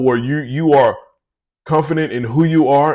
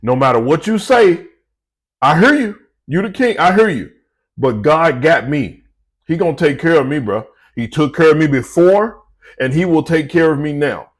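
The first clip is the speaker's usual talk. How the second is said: bold David. Retold or imitated. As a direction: tell it straight to his face. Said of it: "He told Saul in his face".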